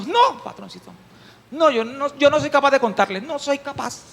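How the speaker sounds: coy servant. Acted. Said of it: "capataz de finca".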